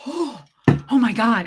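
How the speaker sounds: slow stunned oh my God; shocked gasp. Retold or imitated. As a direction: act floored by the news. Shocked reaction, slow far.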